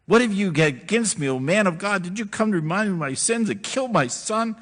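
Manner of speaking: high, loud, whiny accusation; whining widow. Acted. Grieving widow whines at Elijah, high and loud. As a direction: wail it at the prophet. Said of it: "She starts whining".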